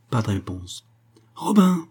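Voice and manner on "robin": higher, louder insistent call; repeated call. Acted. Roll-caller repeating the missing man's name, louder. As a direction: call the missing man again, harder. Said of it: "répéta celui qui faisait l'appel".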